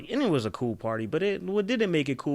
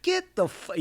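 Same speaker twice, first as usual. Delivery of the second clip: "Get the fu-" punched out high; demonstrating the emphasis on "Get the fu-"; emphatic; 5 semitones higher, slower than usual. Shown as a demonstration. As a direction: lean hard on "Get the fu-" at a raised pitch. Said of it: "you hear the emphasis?".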